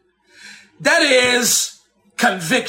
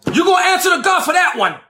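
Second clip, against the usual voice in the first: shouted warning; 5 semitones higher, faster than usual. Shown as a demonstration.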